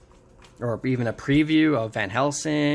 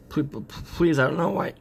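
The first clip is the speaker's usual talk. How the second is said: higher-pitched, stammered begging; mock pleading; 5 semitones higher than usual. Captive begging the Goblin Queen, mock pleading. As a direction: plead lightly, with a raised voice.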